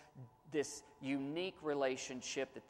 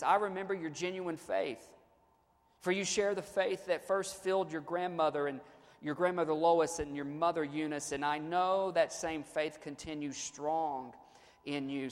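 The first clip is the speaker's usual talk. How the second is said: louder, measured reading of Paul's letter; scripture reading; 3 dB louder than usual. Acted. Pastor reading Paul's letter to his church, lifted reading voice. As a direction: read the verses out to the congregation. Preacher reads scripture aloud.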